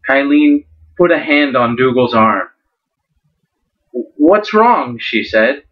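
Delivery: storyteller reading a fantasy novel aloud; dramatic story narration with lightly voiced characters. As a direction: read it like an audiobook, drawing out the suspense. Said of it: "do a little bit of a dramatic reading from it".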